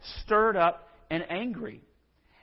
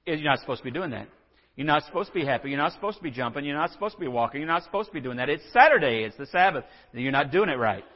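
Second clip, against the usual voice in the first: nagging critic; faster than usual. Acted. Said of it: "somebody would, else would come along and say".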